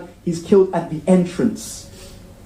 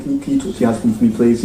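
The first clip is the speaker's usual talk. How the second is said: pleading friend; 5 semitones lower, much faster than usual. Retold or imitated. Man pleading with friend's wife.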